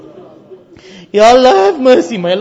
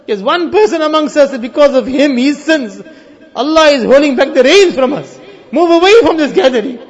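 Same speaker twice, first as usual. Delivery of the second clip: raised, commanding call to a crowd; retold proclamation, pressed out forcefully; public announcement; 3 semitones higher, 5 dB louder than usual. Voices Musa's announcement to the crowd.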